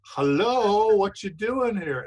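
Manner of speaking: bright, loud, high hello to the demon; cheery greeting. Pretend. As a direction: greet it like an old friend, about to laugh. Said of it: "and start laughing".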